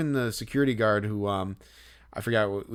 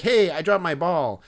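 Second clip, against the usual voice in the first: put-on punchy kid's holler; demanding kid; 6 semitones higher, 6 dB louder than usual. Kid telling a guard about his ball, demanding call. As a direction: imitate a kid calling out, louder and higher. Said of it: "He's like".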